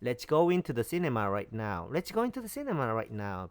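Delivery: very slow, deliberate English; teacher reads the English sentence slowly for learners; slow model reading. Shown as a demonstration. Spell out each word slowly. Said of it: "영어로 보지 말고 해보겠습니다".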